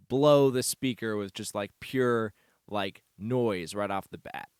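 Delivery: talking through a mouthful of granola; chewing while explaining; mouth full. Real, not acted. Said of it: "Sorry, I'm eating granola".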